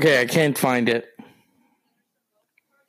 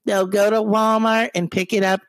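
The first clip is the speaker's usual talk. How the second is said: higher, mock spokeswoman voice; Kellyanne Conway impression; 6 semitones higher than usual. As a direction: play a smug spokeswoman.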